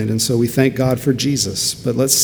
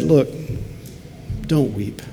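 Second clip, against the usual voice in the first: gentle; 6 dB quieter than usual. Retold or imitated. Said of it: "he's gentle and kind toward women".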